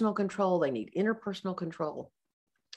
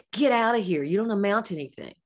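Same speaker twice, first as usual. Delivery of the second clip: loud, higher-pitched mock dismissal; mock scolding yell; 4 semitones higher, 6 dB louder than usual. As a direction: drive someone off like a scornful parent, acted out. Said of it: "used to scream at me".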